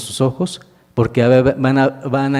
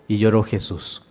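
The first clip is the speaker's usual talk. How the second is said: y lloró Jesús dropped much softer, falling at the end; a soft falling echo of y lloró Jesús; hushed echo; 4 semitones lower, 6 dB quieter than usual. Acted. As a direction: let y lloró Jesús sink into a hush. Preacher dwells on Jesus weeping.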